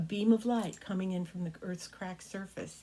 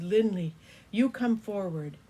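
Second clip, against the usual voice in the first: emperor dragon calling out; 7 dB louder than usual. Acted. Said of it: "He says".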